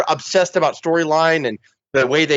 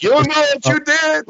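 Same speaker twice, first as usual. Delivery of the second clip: high, put-on giant voice; hammed-up Andre threat; menacing Andre; 12 semitones higher than usual. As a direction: snarl it like an angry giant. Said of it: "He's like".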